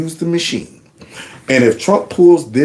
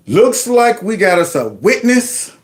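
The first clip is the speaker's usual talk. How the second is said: mock villain drawl; 6 semitones higher, slower than usual. Mock villain line, slow.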